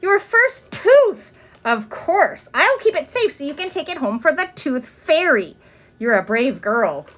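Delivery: smiling teacher, slow and pleased; teacher's delight. Acted. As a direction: praise the child gently, with a smile. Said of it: "Miss Binny smiled".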